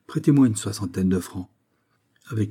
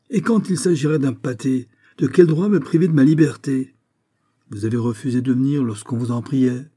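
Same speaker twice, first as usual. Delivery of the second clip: higher and louder, rising fury; angry outburst; 5 semitones higher, 5 dB louder than usual. Acted. The furious count confronts the magistrate over his arrest, shouting. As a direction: demand your rights, voice climbing in rage.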